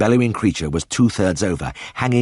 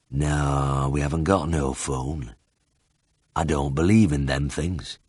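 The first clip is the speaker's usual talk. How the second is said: put-on low, soft, lazy old Dales farmer; lazy drawl; 4 semitones lower, 4 dB quieter, slower than usual. A narrator's reading. Old Ted answering the vet, low and lazily drawled. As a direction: let it drag out unhurried. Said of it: "Ted's drawl was lazier than ever".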